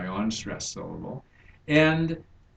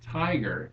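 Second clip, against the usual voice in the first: TI in "tiger" pitched higher, then falling; stress on first syllable; 5 semitones higher than usual. Shown as a demonstration. Teacher showing a trochee, "tiger" stressed on TI. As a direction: punch TI, let "ger" drop away. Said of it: "it's the first syllable that is stressed".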